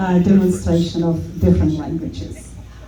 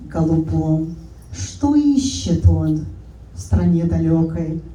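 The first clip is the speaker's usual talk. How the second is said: poem recitation. Shown as a demonstration. Demonstrating Russian to the audience by reciting a poem. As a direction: recite the Russian verse with measured, lyrical phrasing, some lines slowed. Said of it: "This is Russian".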